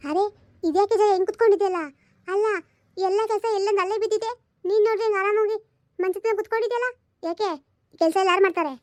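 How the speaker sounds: scolding mother-in-law. Acted. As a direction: needle her for sitting idle on the bed. Mother-in-law scolds idle daughter-in-law. (ಸೋಮಾರಿ ಸೊಸೆಯನ್ನು ಬೈಯುವ ಅತ್ತೆ, ಎತ್ತರದ ಧ್ವನಿ)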